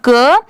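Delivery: "क" with a short vowel, not का. Shown as a demonstration. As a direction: keep "क" short, no long aa. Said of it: "का नहीं होगी".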